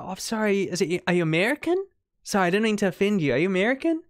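quick, apologetic imitation of a broad Kiwi accent; mock thick Kiwi accent; strong Kiwi accent. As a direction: put on a Kiwi accent, asking hurriedly. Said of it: "she has a really strong Kiwi accent".

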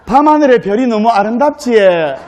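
acted Gyeongsang dialect lilt; Gyeongsang bride. Bride admires night sky to her groom in Gyeongsang accent. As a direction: admire it in broad Gyeongsang speech. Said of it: "경상도 신부가".

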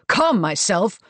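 loud, scornful echo; incredulous anger. A narrator's reading. Marcus retorts to his wife, angrily incredulous. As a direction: throw the words back at her loudly. Marcus throws her words back, angry.

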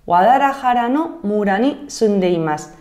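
ordinary talk

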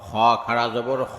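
final "খ" held long; drawn-out vowel. Shown as a demonstration. Teacher demonstrating khara jabar, long "খ". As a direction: stretch the last "খ" for one alif. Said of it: "একালিপ টেনে পড়তে".

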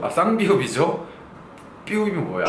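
normal talking voice

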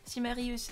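Chimarius with the ending split, si-ma-ri-us; second pronunciation attempt. Real, not acted. Streamer correcting herself on a viewer's pseudo, tentative pronunciation. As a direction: sound out "Chimarius" with "i-us" as two syllables. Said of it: "je galère avec vos pseudos".

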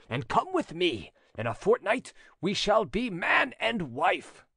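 lightly voiced lover urging elopement; ardent suitor. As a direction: urge earnestly, pitch swinging up and down. Voices Jeannin urging her to elope.

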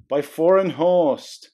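slow, stressing foreign; slow repeat. Acted. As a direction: lean on foreign, slowly. Repeats message slowly.

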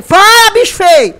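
loud. Real, not acted. Shooing ugly game creature.

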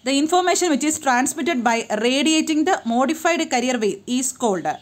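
drawn-out, careful reading of a test question; slow exam question read. Acted. Teacher reads a test question aloud to students, slow and measured. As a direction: read the question word by word for the class.

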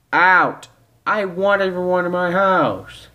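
loud, high furious shout; angry ejection. Acted. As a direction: yell to throw guests out. Host throwing guests out.

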